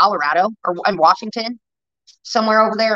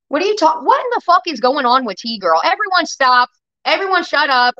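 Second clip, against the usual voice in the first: exasperated, pitch jumping up on the commands; irritated outburst; 3 semitones higher than usual. Real, not acted. Streamer demanding everyone stop over chat drama, irritated. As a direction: cut everyone off, fed up. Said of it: "Now I'm getting shitty".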